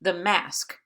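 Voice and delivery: "The mask" as an iamb, light THE then firm MASK; unstressed "The", stressed "mask". Shown as a demonstration. Teacher giving another iamb, stress falling on "mask". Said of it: "is another iamb".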